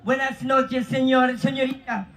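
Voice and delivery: Spanish-sounding patter in a mock Spanish accent. Host calls Spanish, answered with mock Spanish patter. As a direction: rattle off fake Spanish with a cheeky ending.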